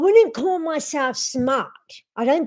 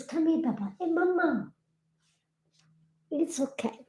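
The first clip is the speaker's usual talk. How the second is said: much softer, gentle coaxing; 2 semitones higher, 10 dB quieter, faster than usual. Real, not acted. Owner softly soothing her dog on her lap. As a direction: hush and soothe the pet.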